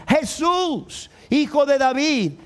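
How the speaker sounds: mock shout, voice lifted; crying out. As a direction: call out to someone passing by. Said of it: "¿Y qué gritaba? Gritaba".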